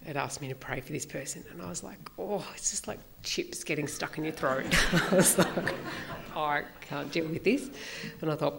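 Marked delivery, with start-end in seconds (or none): 2.2-5.8 words broken by real laughter; amused, giggling self-mockery; laughing. Real, not acted. Laughing at own reluctance. 6.4-7.7 slow, laughing protest; real giggle through a mock complaint. Real, not acted. Laughing at own reluctance.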